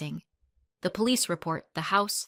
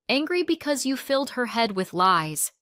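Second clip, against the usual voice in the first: raised, heated retort; shot back; 5 semitones higher, 5 dB louder than usual. A narrator's reading. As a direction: fire back an angry accusation, higher and louder. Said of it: "Mom shot back".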